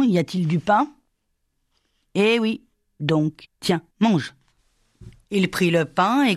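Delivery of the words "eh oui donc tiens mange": put-on slow, higher, odd village-boy voice; lightly voiced simpleton handing over bread; simple boy offering. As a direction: coax him gently to eat, like a simple lad. Jules offers bread to the pastor.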